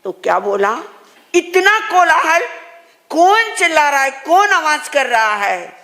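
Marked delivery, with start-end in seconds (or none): 1.3-5.7 higher-pitched, mildly acted irritation at noise; acted exasperated questioning; annoyed outcry. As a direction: complain like a sufferer bothered by din. Acts out suffering king irritated by noise.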